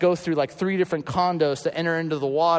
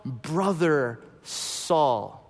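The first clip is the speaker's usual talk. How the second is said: tender emphasis; much slower than usual. Shown as a demonstration. Preacher contrasts labels, saying brother Saul slowly and tenderly. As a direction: linger lovingly on brother Saul.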